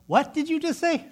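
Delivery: high, loud indignant snap; angry customer shouting at the drive-thru speaker; indignant outburst. Retold or imitated. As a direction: blurt it out in disbelief. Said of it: "And I actually went".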